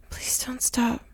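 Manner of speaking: a soft, breathy plea; pleading whisper. Acted. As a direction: beg in a whisper. Pleading hushed.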